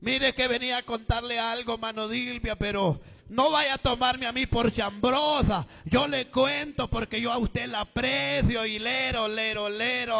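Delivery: lightly voiced gossip's chatter; a touch of singsong tattling; gossiping church sister. Church sister brings gossip to sister Dilvia, lightly acted tattle.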